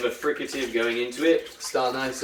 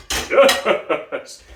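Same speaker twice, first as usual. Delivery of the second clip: higher, louder chest call; 7 semitones higher, 7 dB louder than usual. Shown as a demonstration. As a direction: lift it up high and loud. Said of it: "chest resonance".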